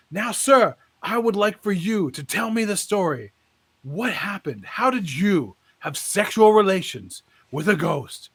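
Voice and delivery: a hint of a booming preacher; lightly voiced preacher prompting. Preacher asking the man on stage, in a lightly booming preacher voice.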